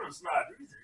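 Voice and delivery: high, breathy little frog voice; Kermit voice. Pretend. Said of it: "Jimmy, you can do it, Kermit".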